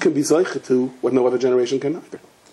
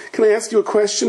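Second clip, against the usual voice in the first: timid parrot; 7 semitones higher than usual. Acted. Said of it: "the parrot is still shivering".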